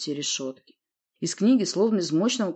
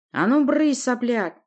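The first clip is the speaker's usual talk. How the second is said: loud, high menacing command; stern order; 7 semitones higher, 5 dB louder, slower than usual. A narrator's reading. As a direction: bark the order threateningly. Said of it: "грозно приказал Ури".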